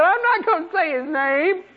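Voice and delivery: high, slow demon lament with a laugh breaking through; mock wailing demon. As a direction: whine it out like a defeated demon. Preacher voices a frightened demon.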